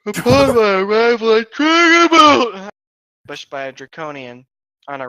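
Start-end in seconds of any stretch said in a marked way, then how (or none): 0.1-2.7 loud declaration. Acted.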